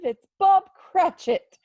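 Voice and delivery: loud, high, slow exclamation; delighted surprise. Acted. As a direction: greet him with a glad shout. Surprised to see Bob.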